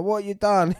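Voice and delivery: high, loud startled what you done; sudden shock at being poisoned; mock alarmed yelp; alarmed cry. Victims throwing up, alarmed.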